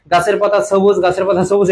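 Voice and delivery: "সবুজ" as sobuz, starting on a plain s; wrong s sound. Shown as a demonstration. Teacher mimics what we never say, wrong s in "সবুজ". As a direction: say "সবুজ" with s where sh belongs. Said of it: "এটা তো আমরা বলি না".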